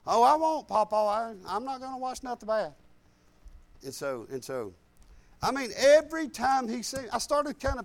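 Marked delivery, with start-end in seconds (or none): 0.1-2.7 eager grandson promise. Retold or imitated. A grandson promises his Papa he'll be good, eager. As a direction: promise Papa sweetly, like a young kid.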